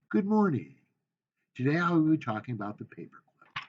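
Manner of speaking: "Good morning" called out high and loud; bright speech opener. Shown as a demonstration. Speech teacher demoing an opener, loud and high. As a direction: open the speech big to the room. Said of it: "demo speech opening".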